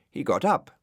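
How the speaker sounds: ordinary delivery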